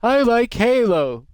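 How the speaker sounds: high, loud, slow squeak; sudden squeaky exclamation; odd squeaky voice. Acted. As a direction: blurt it in a silly squeaky voice. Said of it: "I said it like that".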